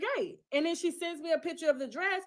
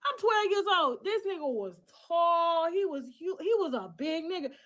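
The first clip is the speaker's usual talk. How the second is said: outraged; 4 semitones higher than usual. Real, not acted. Outraged recounting of abuse.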